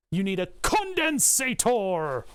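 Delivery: slow, hammed-up German engineer voice; mock German accent. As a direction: play a stern German engineer, slowly. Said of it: "Blame the Germans".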